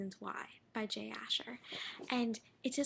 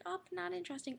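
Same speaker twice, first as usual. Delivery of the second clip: bored dismissive; 9 semitones higher than usual. Retold or imitated. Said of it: "they're like".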